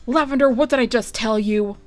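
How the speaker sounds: loud scolding rebuke; sharp snap. Acted. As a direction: snap at your brother. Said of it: "snapped Bergamo".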